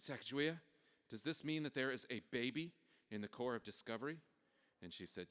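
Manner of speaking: soft, hushed question; hushed awe. Acted. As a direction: ask it gently, hushed. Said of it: "They're all very quiet".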